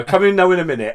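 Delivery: high, loud Valleys sing-song; a broad Welsh Valleys voice, high and loud; welsh valleys accent. Pretend. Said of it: "Now in a minute, yeah".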